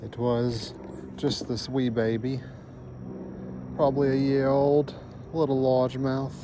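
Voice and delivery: lightly put-on British accent, slowish; a hint of British, played for laughs; bad British accent. Angler joking to viewers about a tiny bass, in a bad British accent. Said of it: "Sorry for the British accent".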